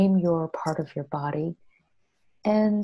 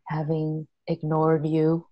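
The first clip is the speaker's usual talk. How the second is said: gentle healing prayer. Shown as a demonstration. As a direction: pray tenderly to your body, unhurried. Speaks to her own body.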